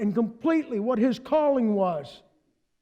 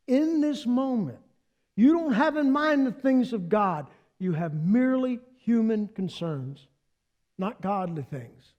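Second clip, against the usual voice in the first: solemn rebuke. Retold or imitated. Jesus rebukes Peter solemnly.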